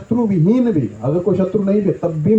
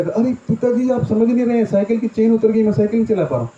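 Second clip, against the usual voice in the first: put-on child whining; 5 semitones higher than usual. Child pleading with father.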